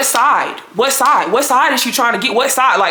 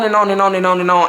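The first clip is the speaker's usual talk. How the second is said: tag along endlessly; 2 semitones lower than usual. Real, not acted. Droning imitation of endless ranting.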